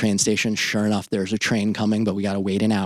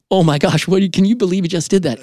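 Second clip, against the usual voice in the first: much higher, louder, fast astonished burst; stunned passengers; 8 semitones higher, 5 dB louder, faster than usual. Retold or imitated. Train passengers reacting to the jump, high fast astonished cry. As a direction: gasp out the disbelief.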